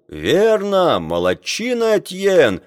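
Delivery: high-pitched shouted approval; crowd cheering agreement. A narrator's reading. Crew backing the sailor who spoke, cheering. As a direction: cry out your approval, voice lifted high. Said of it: "кричала команда".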